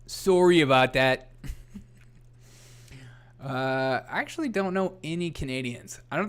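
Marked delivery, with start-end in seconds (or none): 0.1-1.3 apologetic mock-Canadian accent; hammed-up Canadian "sorry"; bad Canadian accent. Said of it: "I don't have a very good Canadian accent".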